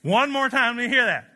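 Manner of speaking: a believer begging to hear the promise again; fired-up disbelief. Retold or imitated. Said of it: "they go".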